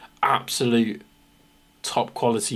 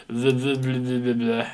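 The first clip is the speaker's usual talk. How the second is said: glitch stutter. Pretend. Mimicking glitchy text.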